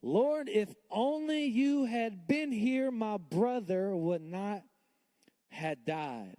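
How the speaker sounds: high, slow, pleading cry of grief. Retold or imitated. Mary at Jesus' feet, high slow grieving plea. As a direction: beg through the loss, drawn out. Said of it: "she fell at her feet and said".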